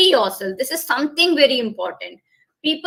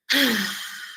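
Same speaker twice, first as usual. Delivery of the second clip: release breath sigh. Shown as a demonstration. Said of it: "there should be a sound of ah".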